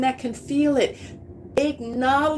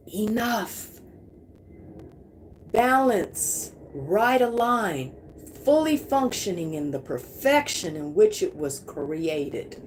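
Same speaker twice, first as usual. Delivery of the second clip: guided affirmation. Acted. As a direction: lay each word down gently like a blessing. Leads a guided energy affirmation.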